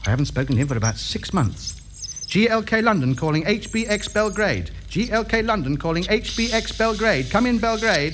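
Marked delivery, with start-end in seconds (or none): 2.3-8.1 radio call-sign announcement. Acted. London radio ham calling Belgrade, formal transmission. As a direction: put out a call to a distant station.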